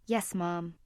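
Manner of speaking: a daughter answering her mother quietly, softly. Acted. Daughter giving in to her mother, said softly. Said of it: "she said quietly".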